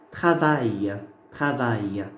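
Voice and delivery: travail with the ya glide at the end; pronunciation demo. Shown as a demonstration. Teacher shows yod at word end, modelling. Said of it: "J'entends le ya à la fin du mot".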